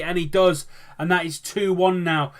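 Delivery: a live commentator raising his voice for the goal; excited goal call. Real, not acted. Opposition scores, commentator calls it.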